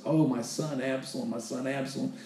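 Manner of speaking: mournful, softened retold lament; retold weeping. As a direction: quietly mimic a grieving father. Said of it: "He's sobbing. He's weeping".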